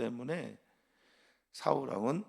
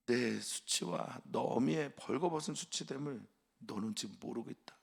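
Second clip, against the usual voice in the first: shaming rebuke; 4 semitones higher than usual. Acted. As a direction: scold him for the shame. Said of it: "말합니다".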